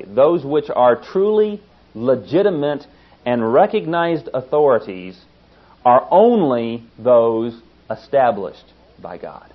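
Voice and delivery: "truly" and "only" slowed and stressed; slow emphatic reading. Shown as a demonstration. Preacher offers his own reading of the verse, slow and emphatic. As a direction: weigh "truly" and "only" deliberately. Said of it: "How about putting it this way?".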